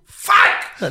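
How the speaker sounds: high burst of alarm; mock shocked curse. S0 retelling his reaction to her parents remark, shocked curse. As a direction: blurt it out in comic horror. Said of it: "Ich so".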